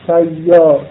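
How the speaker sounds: سیار with open s and doubled y; correct pronunciation. Shown as a demonstration. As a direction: say سیار as "sayyar" with the y held. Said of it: "سیار رو چجور بخون؟".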